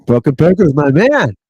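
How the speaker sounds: laughing shout. Real, not acted. Loud laughing greeting to a viewer.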